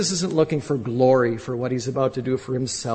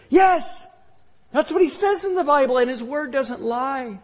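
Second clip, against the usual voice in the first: exultant yes; 10 semitones higher than usual. Real, not acted. Preacher assuring his congregation, ringing with joy. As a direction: cry it out like a triumphant preacher. Exclaims loudly in sermon.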